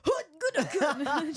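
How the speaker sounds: loud grunting strongman; masseur grunt. Retold or imitated. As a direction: bark it like a burly masseur.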